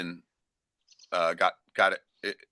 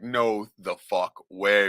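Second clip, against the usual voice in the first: slow disbelief; much slower than usual. Retold or imitated. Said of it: "I'm just like".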